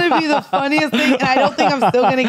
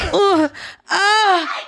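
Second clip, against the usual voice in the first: higher-pitched mock moans; demonstrated sexual moan; 6 semitones higher than usual. Shown as a demonstration. Woman showing guest how easily she moans, mock sexual moaning. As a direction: moan on cue to show how easy it is. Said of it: "Like, we moan".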